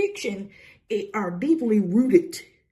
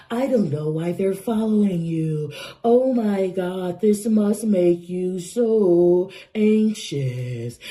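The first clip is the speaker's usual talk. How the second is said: mock fearmongering reader; 3 semitones lower than usual. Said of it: "they like".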